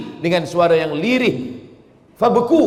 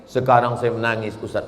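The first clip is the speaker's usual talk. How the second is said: put-on tearful old man; 3 semitones lower than usual. Old man weeping at Kaabah.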